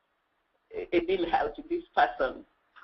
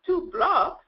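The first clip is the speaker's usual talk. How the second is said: retold puzzlement; 11 semitones higher, 4 dB louder than usual. Puzzled newcomer echoing directions.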